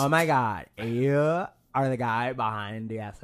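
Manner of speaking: slow, drawn-out fan voice; put-on starstruck fan. Acting a fan who recognizes the podcaster, put-on awe. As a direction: stretch the question in mock awe.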